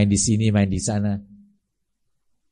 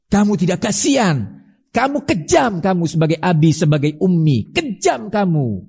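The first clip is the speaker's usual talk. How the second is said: rebuke; 3 semitones higher than usual. Acted. Preacher rebuking the parents.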